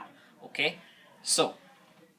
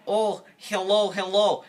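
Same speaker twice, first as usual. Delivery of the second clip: put-on high, loud children's hello; children calling; 6 semitones higher, 6 dB louder than usual. Children greet the climber on the burning mountain, calling out high. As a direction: call out slowly in a raised, higher voice.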